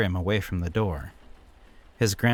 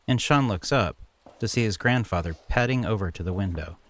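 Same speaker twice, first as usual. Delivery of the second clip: usual speaking voice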